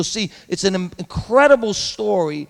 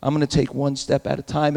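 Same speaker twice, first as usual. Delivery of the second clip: resigned prayer; 5 semitones lower, 6 dB quieter than usual. Pretend. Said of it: "Joseph got up and said".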